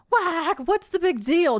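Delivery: high, loud duck squawk; Donald shouting. Acted. Donald complaining after tumbling out. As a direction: squawk it indignantly. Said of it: "Donald shouts".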